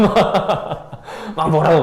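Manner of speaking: laughing through the words, slowly; giggling at the thought of Jesus scolding Peter. Real, not acted.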